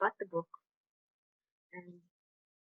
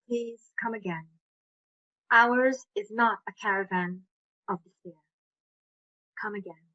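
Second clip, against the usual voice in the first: reciting a poem. Shown as a demonstration.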